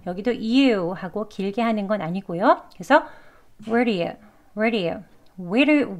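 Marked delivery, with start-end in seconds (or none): 3.7-6.0 "where do you" run together with a tapped d; linked flap D. Shown as a demonstration. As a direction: link "where do you" like wer-di-yu. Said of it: "약간 이런 발음처럼요".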